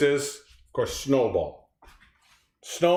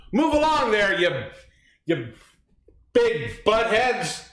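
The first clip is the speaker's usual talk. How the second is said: lightly voiced pig, high start, slow drawn ending; movie pig line; 4 semitones higher, slower than usual. Reading a quiz line to her partner, lightly voiced pig. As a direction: read it like the pig in Babe. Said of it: "The next line is".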